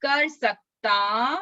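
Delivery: slow, stretched words with lifted endings; slowly, for repeating. Shown as a demonstration. Teacher leads children repeating the memory verse, slowly. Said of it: "मैं धीरे धीरे बोलूंगी".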